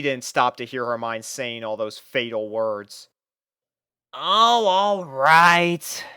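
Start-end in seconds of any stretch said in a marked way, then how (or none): 4.1-6.0 a defeated sighing give-in; sighed in defeat. A narrator's reading. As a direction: give up with a sigh, higher. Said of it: "she sighed in defeat".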